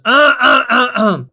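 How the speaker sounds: imitated rapper grunts; punchy grunted ad-libs mimicking a rapper; rapper-style ad-lib grunts. Streamer showing viewers how the rapper sounds, imitated grunts. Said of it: "ça fait un truc en mode".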